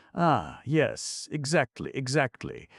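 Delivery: high, eager character voice; delighted agreement. A narrator's reading. Young Mirabal agrees eagerly with Kate, high and delighted.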